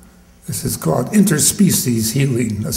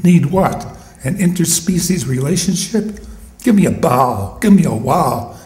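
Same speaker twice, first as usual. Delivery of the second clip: dog persona. Acted. Shelby the dog lectures people, lightly voiced dog. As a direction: talk as a wry, fed-up dog. Dog narrator speaks poem.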